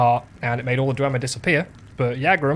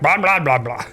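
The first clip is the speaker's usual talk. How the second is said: higher pitched voice; 3 dB louder than usual. Retold or imitated. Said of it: "he has, like, a higher pitched voice".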